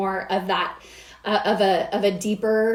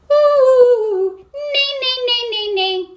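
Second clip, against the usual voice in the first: much higher, louder witchy ooh then neighs; 13 semitones higher, 6 dB louder, much slower than usual. Shown as a demonstration. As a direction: cackle it out like a witch. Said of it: "you can already feel it's a little bit deeper".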